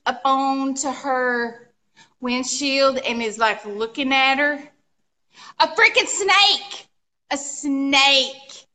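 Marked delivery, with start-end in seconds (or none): 5.6-8.6 appalled and excited; horrified exclamation. Real, not acted. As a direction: blurt out the shocking reveal. Climax of the snake story.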